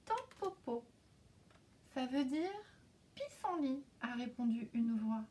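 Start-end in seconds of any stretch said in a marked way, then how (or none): 0.1-3.8 high, small insect voice; ladybug voice. Acted. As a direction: answer as a tiny ladybug. A hidden voice answers.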